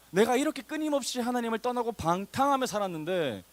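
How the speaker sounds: high-pitched, impassioned outpouring; acted fervent confession. Believer confesses wandering from God, high impassioned voice. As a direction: pour it out as an overwhelmed believer. Acts out repentant believer's amazement.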